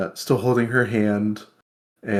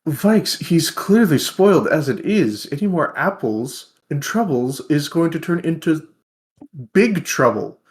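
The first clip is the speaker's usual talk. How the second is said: much higher and louder, playfully aghast protest; mock exasperation; 8 semitones higher, 3 dB louder than usual. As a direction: whine in comic disbelief. Tavrik protests the extra apples.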